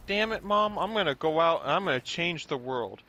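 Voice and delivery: lightly acted kid standing up to mom; a touch of melodramatic protest; mock defiance. Acted kid defying his mom.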